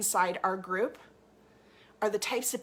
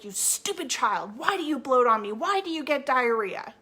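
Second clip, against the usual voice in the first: mock scolding. Coach mocking a parent who yells at a child, angry. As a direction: scold the child, then punch each why. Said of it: "get angry and be like".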